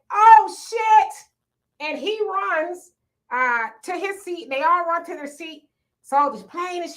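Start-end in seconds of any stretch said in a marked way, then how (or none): 0.1-1.1 high, loud startled "oh shit"; alarmed curse. Retold or imitated. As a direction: blurt it out in sudden panic. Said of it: "the airline attendant said".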